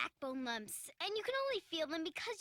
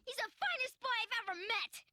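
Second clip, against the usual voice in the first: high, heated comeback; defiant retort; 4 semitones higher than usual. Acted. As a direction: argue back stubbornly. Girl defies boy in quarrel.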